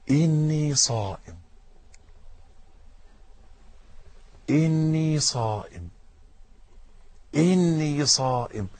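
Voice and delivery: soft, slow inner reminder: إني صائم murmured; hushed self-reminder, slow; quietly to oneself. Shown as a demonstration. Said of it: "قال: فليقل".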